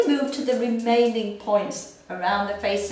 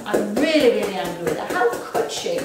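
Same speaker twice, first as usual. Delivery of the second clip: loud burst of anger; louder exasperated anger; voiced anger; 5 dB louder, faster than usual. Shown as a demonstration. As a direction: let it flare up. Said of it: "Under the arm".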